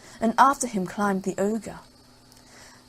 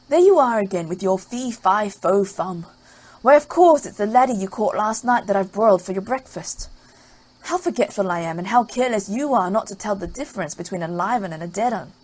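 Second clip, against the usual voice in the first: louder, nagging housewife voice; scolding ogre's wife; 5 dB louder than usual. Acted. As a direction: chide him like a scolding wife.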